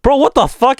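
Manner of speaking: retelling his reaction to the friend's cosplay, a mock shocked outburst. Retold own shocked reaction.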